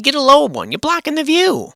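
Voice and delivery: high, loud mock shouting; imitating a worked-up protest; retold complaint. Retold argument with the boss.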